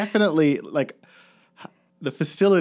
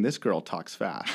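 slow Bruce County drawl; 3 semitones lower, 4 dB quieter, slower than usual. Retold or imitated. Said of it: "Maybe it's the Bruce County drawl".

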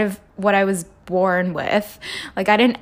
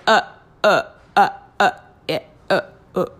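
flustered stammering; much faster than usual. Retold or imitated. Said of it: "just breaks down like".

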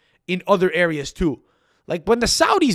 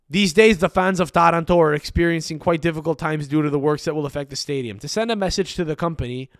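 measured, even article-reading delivery; news article read aloud. Acted. Host reading listeners an article about Taranto's stadium troubles, read-aloud style.

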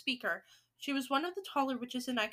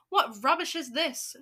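louder, scornful demand; acted shout; 2 semitones higher, 6 dB louder than usual. Grand High Witch rejecting the report, shouting. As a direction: dismiss it with a raised voice. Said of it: "shouted the Grand High Witch".

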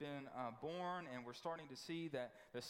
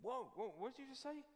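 startled Herod; 6 semitones higher than usual. Acted. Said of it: "Herod, man's like".

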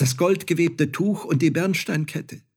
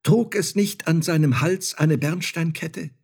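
urgent cry; 7 semitones higher, 4 dB louder than usual. Acted. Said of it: "rief sie".

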